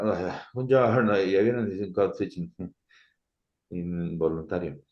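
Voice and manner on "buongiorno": higher, sing-song Italian; mock Italian with stretched vowels; exaggerated Italian accent. Shown as a demonstration. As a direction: overdo the Italian lilt. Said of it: "I don't consider that is".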